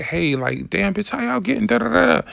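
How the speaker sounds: breezy mock gossip between girlfriends; imitating a friendly woman greeting trans girls; friendly girl's girl. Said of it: "come to us and be like".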